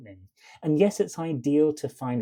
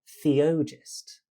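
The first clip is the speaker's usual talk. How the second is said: "Theogist" with the weight on the middle O; second beat stressed; 2 semitones higher than usual. Shown as a demonstration. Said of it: "beat is the one we stressed".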